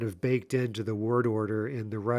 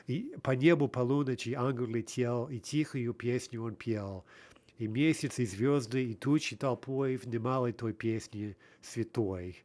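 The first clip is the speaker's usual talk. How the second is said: rhythmic recitation. Shown as a demonstration. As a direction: recite with the ternary beat audible. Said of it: "listen again as I read".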